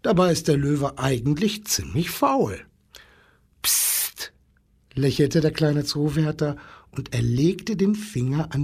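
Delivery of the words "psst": soft, voiceless shush; hushing. A narrator's reading. Zookeeper hushing the angry animals, a soft shush. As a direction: shush them softly. Zookeeper hushes, finger to lips.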